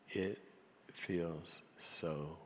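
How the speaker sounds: halting, hushed voice on the verge of tears; barely getting words out. Retold or imitated. Chairman admitting his hurt on the floor, barely getting words out. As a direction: force it out slowly, almost whispered. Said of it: "he barely got the words out".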